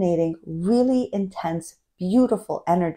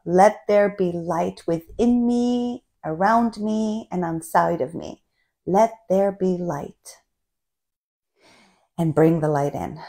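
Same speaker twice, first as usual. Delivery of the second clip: mantra recitation; slower than usual. Shown as a demonstration. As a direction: recite it slowly like a prayer. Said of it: "So this is the mantra".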